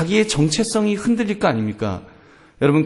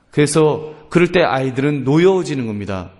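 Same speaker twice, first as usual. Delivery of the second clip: ordinary talk, nothing marked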